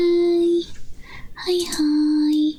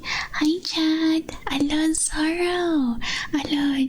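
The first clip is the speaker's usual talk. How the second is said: ASMR whisper; slower than usual. Acted. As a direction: greet chat in a hush. Whispered greetings to chat.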